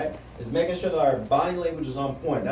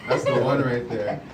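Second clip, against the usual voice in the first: smitten gushing; 5 semitones lower, slower than usual. Shown as a demonstration. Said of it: "like it's your new boo thing".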